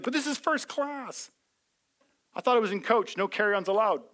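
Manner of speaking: hammed-up wonder at first class; mock amazement. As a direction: act stunned at the upgrade. Amazed arrival in heaven voiced.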